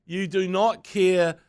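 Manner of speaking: slow, fed-up Shut up, Blocker; a hint of exasperated fan; mock fed-up retort. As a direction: tell him off, dragging the last words. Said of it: "I'm like".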